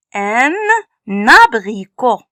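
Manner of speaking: "N, abricot" with the n carried onto "abricot"; liaison. Shown as a demonstration. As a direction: link the n into "abricot", like "nabricot". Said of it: "Ici, on met la liaison". (« abricot » avec liaison, dit « nabricot »)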